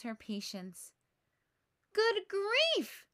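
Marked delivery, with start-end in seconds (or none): 1.9-3.1 high, loud burst of exasperation; big sister fed up, crying out; exasperated cry. A narrator's reading. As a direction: lose patience all at once. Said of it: "she cries".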